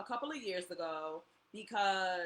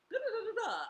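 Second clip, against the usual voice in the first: high playful da da da; tossing off the messages like a little tune; sing-song da da; 13 semitones higher than usual. Retold or imitated. Mimicking psychic messages in a high sing-song.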